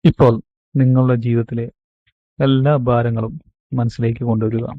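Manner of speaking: measured meditation guide with long pauses; guided meditation. Acted. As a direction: guide them into calm, phrase by phrase, stretching key words. (ധ്യാനത്തിലേക്ക് നയിക്കുന്ന ശാന്തമായ ശൈലി, ഇടവേളകളോടെ)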